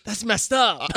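high amused inmate; high mock inmate voice. The inmate next to him reacts, high and laughing. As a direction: squeak it out like the shocked inmate. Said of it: "he's like".

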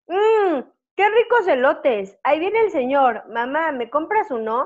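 high, slow sing-song vendor recording; singsong street-cart ad with a kid's plea; elote cart jingle. Retold or imitated. Imitating the elote cart's recorded ad, high and slow. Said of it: "pasa un cochecito de elotes y dice".

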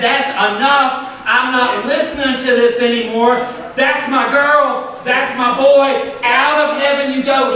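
God dismissing the accuser. Acted. God telling the accuser he is done listening. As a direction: shut the accuser out for good. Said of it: "God said".

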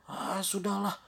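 high-pitched dismissal; exasperated giving up. Acted. Wolf out of excuses gives up, exasperated. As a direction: drop the pretence impatiently.

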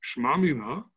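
"Shma mina" with a questioning rise at the end. Shown as a demonstration. Teacher reading the Gemara's line to students as a question, questioning. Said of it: "it's really kind of a question".

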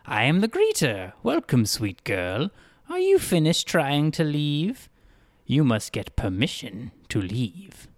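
a lightly voiced, overly polite town greeter; odd cheerful greeter. Greeter welcoming a dazed girl, lightly voiced and polite. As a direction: play the greeter, hospitable and a bit strange.

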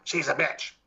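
mock spirit retort with an altered voice; nasty spirit voice. Spirit answers why it bothers the wife, imitated nasty voice. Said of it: "nasty voice goes".

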